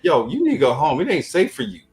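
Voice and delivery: imitating street girl. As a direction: retell her outrage in a high voice. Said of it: "he said".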